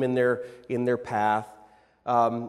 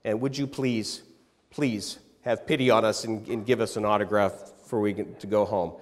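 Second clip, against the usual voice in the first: sweet pleading; 5 semitones lower than usual. Retold or imitated. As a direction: coax him kindly, a mother asking a favor. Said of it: "my mom was just so sweet".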